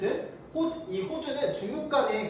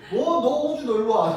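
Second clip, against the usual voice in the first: raised, loud picking-a-fight voice; mock angry yell; 2 semitones higher, 8 dB louder than usual. Teacher acting out China cursing at Australia, mock angry yell. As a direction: act out an angry challenge, loudly. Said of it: "이러면서 막 욕을 한 거야".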